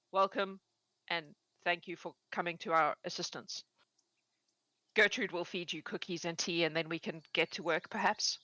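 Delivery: gravely courteous welcome; formal old farmer. Acted. Old farmer formally thanks the adventurers, measured. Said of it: "he stands up and he goes".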